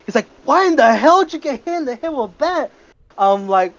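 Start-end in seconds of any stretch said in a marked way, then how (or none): 0.5-2.7 a much higher, disbelieving coach; incredulous coach. Retold or imitated. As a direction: coach caught off guard, voice jumping up.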